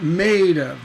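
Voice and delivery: MADE stressed, OF unstressed and falling; firm "Made", light dangling "of". Shown as a demonstration. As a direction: hit "Made", drop off on "of". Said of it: "That stress is on made".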